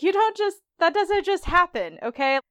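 imitating a wife who won't buy it; squeaky disbelief, sliding down to okay; indignant Claire. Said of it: "And she's like".

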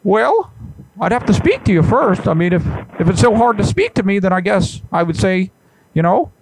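a hint of an indignant professor; Jordan Peterson. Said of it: "this is Jordan B. Peterson".

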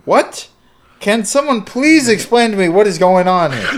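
a lost Yankee begging for an explanation; confused outburst. Acted. Defendant confused by the judge, pleading. Baffled defendant in a courtroom sketch.

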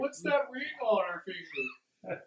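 high, slow, innocent busybody voice; sneaky crowd gossip. Pretend. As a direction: ask it like a nosy onlooker. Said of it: "sneak into the middle of the crowd and be like".

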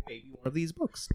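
soft sly whisper. Acted. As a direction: whisper it like a secret tip. Teasing gift suggestion aside.

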